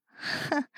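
soft breath of a scoff; short voiceless amused snort; scornful huff of laughter. Acted. Captor can't help laughing at the captive, scornful huff. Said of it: "高渊不禁失笑".

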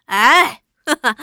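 a hearty laugh that brushes the offer aside; loud laugh. Acted. Old squire laughs off the envoy's offer, hearty loud laugh. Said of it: "放声大笑".

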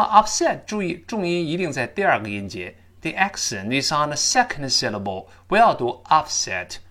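upset with the SET hit hard; stress on second syllable. Shown as a demonstration. (upset重音放在第二个音节)

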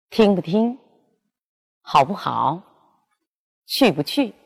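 the middle 不 in 听不听 said short and toneless; light unstressed 不 between the doubled words; neutral tone bu. Shown as a demonstration. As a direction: slip the middle 不 through lightly. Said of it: "不加在重叠词中间变轻声".

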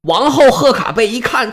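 usual speaking voice

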